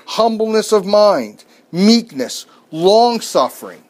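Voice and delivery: slow, measured reading of verses; solemn Bible reading from the pulpit; scripture reading. Acted. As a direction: read the verse out with weight.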